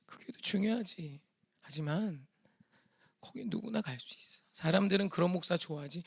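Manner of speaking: solemn half-whispered voice of God; God's voice. Retold or imitated. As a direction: reassure a son, dropping into whispers. God consoles the son in story.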